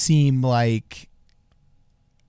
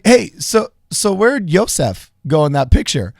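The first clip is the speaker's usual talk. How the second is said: mock questioner; 4 semitones higher, 4 dB louder than usual. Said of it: "And you're just like".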